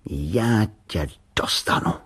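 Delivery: slow menacing whisper; boy threatening the tin can, in a slow whisper; dangerous voice. A narrator's reading. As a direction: breathe a threat under your breath. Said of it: "řekl nebezpečným hlasem".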